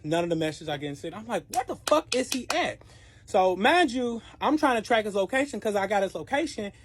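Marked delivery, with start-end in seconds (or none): 1.5-2.8 higher, exasperated question; pitched-up disbelief; where is he, high and puzzled; baffled. Retold or imitated. Calls go to voicemail.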